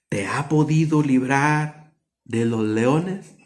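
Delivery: slow, sorrowful call to Daniel, fading to a whisper; sad calling voice. Acted. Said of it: "llamó a voces a Daniel con voz triste".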